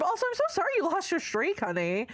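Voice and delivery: cutesy sympathy. Real, not acted. Cooing apology to a viewer.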